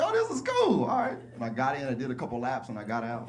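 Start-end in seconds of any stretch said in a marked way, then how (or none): 0.0-1.2 much higher, cool-guy pool voice; big tone. Retold or imitated. Stepping into the steaming baptism pool, big casual tone. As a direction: act casual stepping into the water. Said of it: "I did my big tone".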